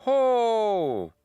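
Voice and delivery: high, loud burst of amazement; excited congratulations. Real, not acted. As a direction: cheer the news with a big, high 'oh'. Reacting to viewer's top exam result.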